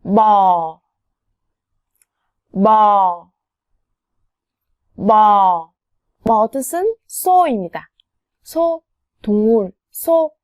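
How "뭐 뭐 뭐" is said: 뭐 said louder with the lips; word demo. Shown as a demonstration. Teacher models the word 뭐 for learners, clear. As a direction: model 뭐 slowly and carefully. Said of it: "옆에 있는 단어도 해보세요".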